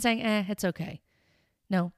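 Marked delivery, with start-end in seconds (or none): 0.2-1.0 lightly acted brush-off; a touch of offhand dismissal; mildly dismissive. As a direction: wave it away with a mock casual air. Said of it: "just dismissing or winking at our behavior".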